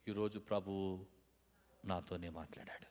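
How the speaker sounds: low, soft, reverent admission; humble acceptance. Shown as a demonstration. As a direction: say it gently, taking it to heart. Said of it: "ఆ మాట రెండు రకాలుగా అనొచ్చు".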